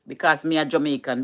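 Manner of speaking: broad Jamaican patois phrasing. Shown as a demonstration. Explaining the accent to viewers, in Jamaican patois. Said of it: "them just love the patois".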